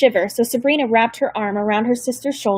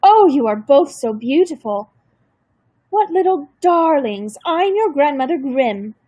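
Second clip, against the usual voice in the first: put-on German accent; 4 semitones higher than usual. A narrator's reading. Grandmother greeting the granddaughters, doting German accent. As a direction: gush over the darlings with a German lilt. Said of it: "with a hint of a German accent".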